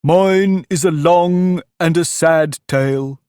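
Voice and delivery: mournful sighing. A narrator's reading. Mouse begins its sad tale to Alice, sighing mournfully. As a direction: sigh it out slowly and sorrowfully. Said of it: "turning to Alice and sighing".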